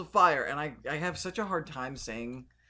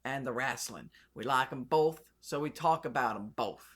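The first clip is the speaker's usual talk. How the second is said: put-on Southern accent. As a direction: slip into a mock Southern twang. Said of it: "We don't use that kind of accent".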